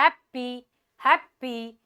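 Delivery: "हैप्पी" split, first syllable stressed; stress on HAP. Shown as a demonstration. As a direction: hit हैप, then a lighter पी in "हैप्पी". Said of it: "stress में आ गया हैप".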